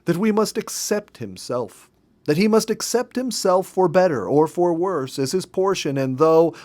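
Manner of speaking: wife reading Emerson aloud, determined not to be drowned out; reading with added power. Acted. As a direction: push the words out firmly, refusing to be interrupted. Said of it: "added power to her tones".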